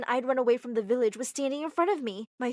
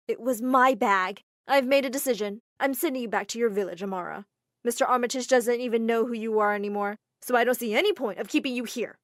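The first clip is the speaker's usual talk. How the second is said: haughty mistress sending her away; cold stern matriarch; 7 dB louder than usual. Acted. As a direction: lay down the verdict coldly. Stepmother dismisses the girl.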